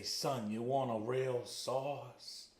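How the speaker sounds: put-on slow Italian nonna accent, lightly done; playful Italian grandma accent offering real sauce; Italian grandmother accent. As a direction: drawl it like a little Italian grandmother. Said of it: "I can legally do that accent now".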